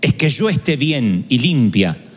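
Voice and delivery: lightly voiced soul speaking gently; reading a prayer. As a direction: poetic reading over music. Reads the soul's prayer over music.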